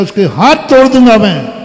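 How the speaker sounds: rough, loud, furious; angry threat. Acted. Father and son threatening the wife, angry. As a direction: snarl out a threat to break her hands.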